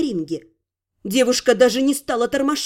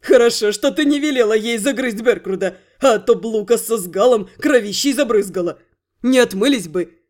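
giggling thief; 4 semitones lower than usual. Acted. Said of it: "захихикал вор".

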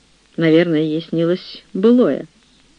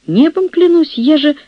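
much higher and louder, crying out an oath; wailing protest; 11 semitones higher, 5 dB louder than usual. Acted. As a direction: cry out your oath, desperate. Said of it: "возопила Мария".

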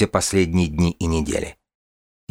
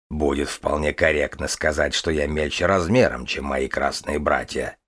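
low, softer dragon voice; calm dragon voice; 4 semitones lower, 3 dB quieter than usual. Acted. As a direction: speak as a calm, proud dragon. The dragon Kazimir speaks.

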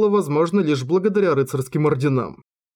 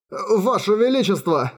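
frightened cry; 6 semitones higher than usual. A narrator's reading. Pale trembling servants cry out.

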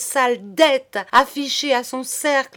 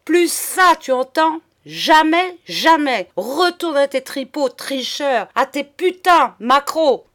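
loud, raised outburst of insults; furious tirade; 3 semitones higher, 6 dB louder than usual. A narrator's reading. Madame cutting off monsieur's money, raging. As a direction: cut him off for good, loudly. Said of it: "rugit-elle enfin".

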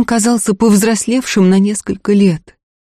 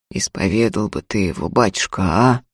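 hoarse plea; 8 semitones lower than usual. A narrator's reading. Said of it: "хрипло попросил".

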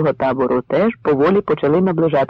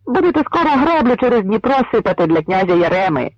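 taunting; 6 semitones higher than usual. Acted. Pole taunting cossacks.

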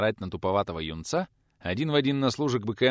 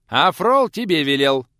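much higher, louder, slow mimic of a boy; mocking the youth; 8 semitones higher, 12 dB louder, slower than usual. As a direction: parrot the boy's whiny order. Youth voice mocked by teacher.

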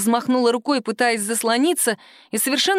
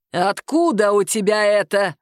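growled. Acted. Boss interrogates Sima about the card, growling. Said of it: "прорычал он".

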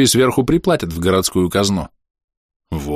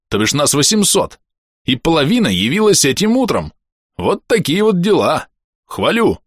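higher, boisterous companion voice; cheery ogre sidekick; 4 semitones higher than usual. Acted. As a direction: rattle it off like a gleeful brute. Bom's cheerful report to the boss.

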